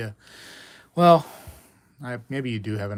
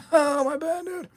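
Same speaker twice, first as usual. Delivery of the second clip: high-pitched, laughing through the words; laughing apology. Real, not acted. Streamer apologising for asking about medical history, laughing. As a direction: apologise while cracking up.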